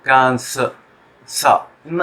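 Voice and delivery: कान स with a weak schwa, not सो; schwa demo. Shown as a demonstration. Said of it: "शुआ मिलेगा".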